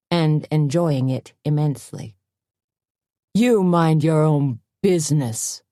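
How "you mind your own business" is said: barked. Acted. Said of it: "Wolfson barked".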